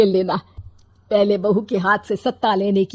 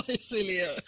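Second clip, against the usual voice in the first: teasing laugh; 10 dB quieter than usual. Acted. Father-in-law's teasing laugh.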